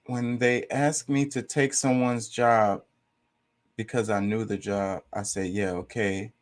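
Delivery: slow, deliberate, drawn-out reread; slow mocking reread. Shown as a demonstration. Rereading the confusing comment, slow and deliberate. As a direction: spell it out slowly, word by word, in disbelief. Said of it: "he says".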